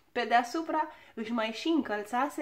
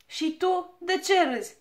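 higher, louder angry snap; snapping at him; 6 semitones higher, 6 dB louder than usual. A narrator's reading. Dwarf snapping at the friend laughing at disaster, angry. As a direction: bite back at the one laughing. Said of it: "se răsti la el".

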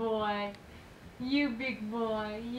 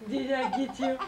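laughing; 2 semitones higher, 4 dB louder, much faster than usual. Real, not acted. Laughing with baby.

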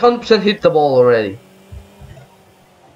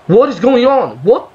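exasperated; 6 semitones higher than usual. Real, not acted. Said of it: "I'm actually getting mad".

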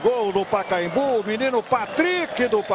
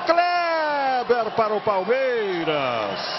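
explosive goal commentary; 3 semitones higher than usual. Real, not acted. Goal call by narrator.

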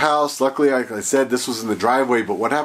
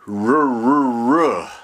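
sputtering engine; 5 semitones higher, much slower than usual. Retold or imitated. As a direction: mimic a starter motor struggling to turn over. Jump starter fails to crank engine.

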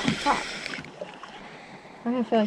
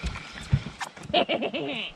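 creepy laugh; 7 dB quieter than usual. Real, not acted. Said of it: "That was a really creepy laugh".

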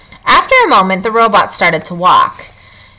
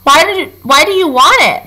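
scowling fox; 7 semitones higher than usual. A narrator's reading. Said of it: "the fox scowled".

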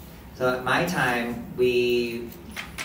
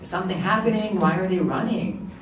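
puzzled thoughts; 6 semitones higher than usual. Retold or imitated. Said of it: "And I was thinking".

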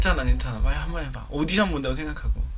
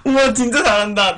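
ordinary talk, nothing marked

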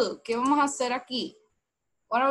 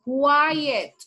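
loud teaching call; 5 dB louder than usual. Shown as a demonstration. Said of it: "Look at my lips".

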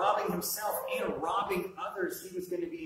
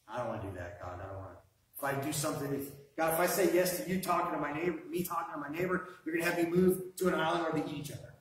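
reluctant believer whining excuses to God. Acted. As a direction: play the scared excuse-maker. Acts out a fearful believer praying.

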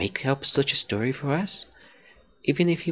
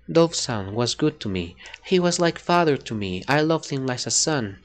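character voice line; 3 semitones lower than usual. Shown as a demonstration. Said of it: "I still have the voice".

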